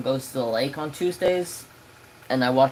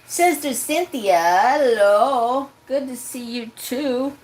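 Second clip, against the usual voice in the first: much higher friendly hello; bright greeting; 8 semitones higher, slower than usual. Real, not acted. Streamer greeting a chat viewer, high friendly voice. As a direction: greet her warmly and up high.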